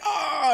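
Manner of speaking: sudden pained cry, pitched high. Retold or imitated. Coworker standing up, retold with a yelp. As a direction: let out a short high yelp as the girl. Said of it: "like, creaking".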